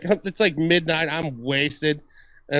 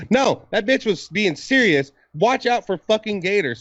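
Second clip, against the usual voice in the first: emphatic disbelief; 6 semitones higher than usual. Real, not acted. Realizing the warning was serious.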